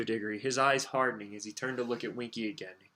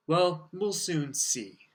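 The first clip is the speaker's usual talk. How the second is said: growled; 6 semitones higher, 3 dB louder, much slower than usual. A narrator's reading. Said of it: "growled Mister Diggory".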